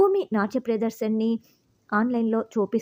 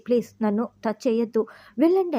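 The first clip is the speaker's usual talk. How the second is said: shouting at her. Retold or imitated. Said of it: "మరింత గట్టిగా అరవటంతో".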